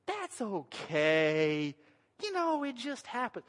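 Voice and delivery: wife shrugging it off. Retold or imitated. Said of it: "and Pam went".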